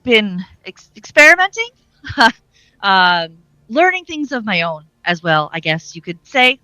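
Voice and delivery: lightly chuckled, hesitant admission; chuckling. Acted. Z admitting to experimenting on her own, chuckling. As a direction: let a small laugh break into the line. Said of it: "chuckles and says".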